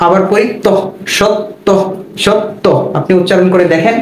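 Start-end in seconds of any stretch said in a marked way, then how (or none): 1.2-2.7 সত্য sounded out as "shot... to"; split syllables. Shown as a demonstration. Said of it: "এরকমটাই হবে".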